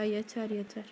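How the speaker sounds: low, soft fed-up groan. Real, not acted. Gamer worn out by a hard boss, softly fed up. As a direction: sink into a soft defeated muttering. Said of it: "konuşamıyorum artık sinirden".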